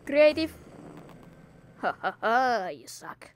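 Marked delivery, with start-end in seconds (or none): 2.7-3.3 low, quiet you suck; a deep, mocking jab; low taunt. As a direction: growl it down low.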